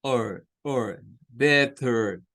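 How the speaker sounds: "better" ending in a schwa-like er; "better", final er drawn as schwa. Shown as a demonstration. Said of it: "pero que suena al schwa". (better con final en schwa)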